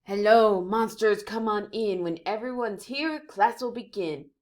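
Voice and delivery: bright booming teacher welcome; teacher greeting. Acted. Teacher welcoming monster pupils, loud and bright. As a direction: call the class in warmly.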